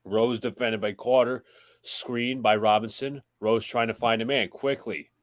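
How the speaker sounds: steady broadcast call of the game; live play-by-play. Acted. Host calling the Knicks-Nets game for the stream, play-by-play. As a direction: call the action as it happens.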